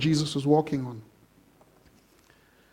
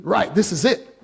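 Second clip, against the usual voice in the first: eager disciples; 2 semitones higher than usual. Retold or imitated. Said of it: "disciples must have been thinking".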